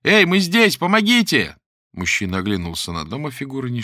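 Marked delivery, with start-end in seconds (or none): 0.0-1.6 high, loud shouting for help; cry for help. Acted. Lera shouts for help from the attic, desperate. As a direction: scream to be heard. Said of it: "закричала Лера".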